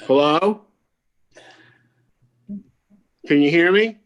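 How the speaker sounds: loud, rising call into the mic. Real, not acted. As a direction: call out to check the line. Muted on a call, calling out.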